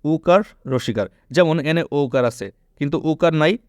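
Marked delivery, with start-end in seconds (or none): 0.1-1.1 slow recitation. Shown as a demonstration. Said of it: "কী technique মনে রাখবা?".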